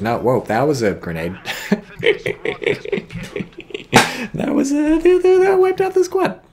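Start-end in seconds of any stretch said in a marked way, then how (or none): 1.4-4.3 high breathy laugh bursting out; sudden burst of laughter. Real, not acted. Grenade wipes out squad. 4.3-6.4 high, loud, slow words through laughter; shocked delight while laughing; laughing excitedly. Real, not acted. Grenade wipes out squad.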